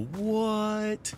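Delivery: high, startled what; yelled what. Retold or imitated. Streamer replays shouting at the enemy, high and startled. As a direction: throw it out like a shocked yelp. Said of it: "I yell".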